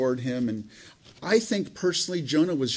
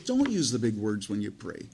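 lower, matter-of-fact answer to an excuse; firm rebuttal; 4 semitones lower than usual. Real, not acted. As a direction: brush the excuse aside, firmly. Preacher answers the imagined objection.

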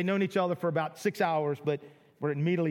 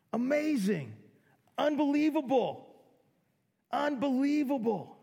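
higher, marvelling, then a hushed awe; amazed excitement; 6 semitones higher than usual. Retold or imitated. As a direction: let wonder take over the voice. Voicing the amazed believer.

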